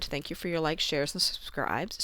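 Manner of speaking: talking around a cough drop; words slurred by a lozenge; cough drop in mouth. Real, not acted. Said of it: "I have a cough drop in my mouth".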